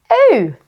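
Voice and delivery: sung-out oo; bright final oo. Shown as a demonstration. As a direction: finish the oo with a lift. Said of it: "U split E makes an oo sound".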